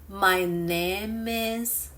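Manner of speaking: "My name is" slow, the m of "name" joined to "is"; linked words. Shown as a demonstration. Teacher showing how to answer, "My name is" slow and linked. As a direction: draw out "My name is" as one linked phrase. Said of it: "Answer like this".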